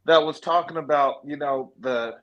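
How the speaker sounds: muffled, like through a wall. Real, not acted. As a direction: voice dulled by a bad mic. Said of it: "You sound muffled".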